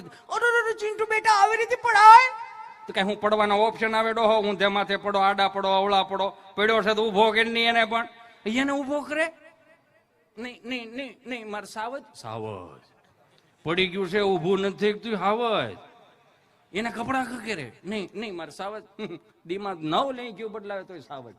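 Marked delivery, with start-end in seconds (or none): 0.0-2.3 much higher, fluttery mock mother; mother fretting over her fallen son, in a high mock-panicked voice; fussing mother. 10.4-12.8 softer, cooing mock mother; mock soothing mother. 17.8-18.8 softer cooing mother; mock soothing mother.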